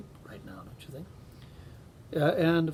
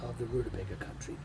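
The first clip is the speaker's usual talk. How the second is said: story narration. A narrator's reading. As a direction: read it like a bedtime tale. Reads a Carl Sandburg story aloud.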